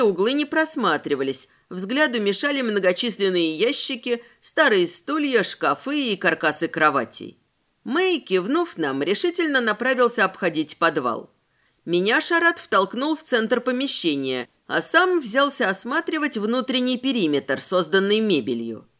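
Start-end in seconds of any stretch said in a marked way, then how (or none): none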